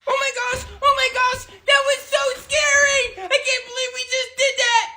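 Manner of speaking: high breathless panic; panicked. Acted. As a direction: shout it out, scared and thrilled. Panicked after running away.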